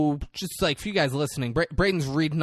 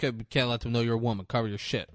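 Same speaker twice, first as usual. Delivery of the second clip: low, soft, hurried aside; quick secretive instruction, voice dropped; retold hushed warning; 7 semitones lower, 7 dB quieter, faster than usual. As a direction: keep it down and urgent. Retold secretive order to Rita.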